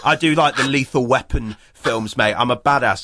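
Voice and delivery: a lightly put-on swaggering Mel; mock Mel Gibson. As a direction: puff up like a tough action star. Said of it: "He's like".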